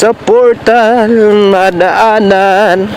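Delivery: slow, bump-jolted words; on a bumpy road. Real, not acted. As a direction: talk while bouncing over potholes. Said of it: "sinasabi kong portal na daanan". (boses na umaalog sa lubak)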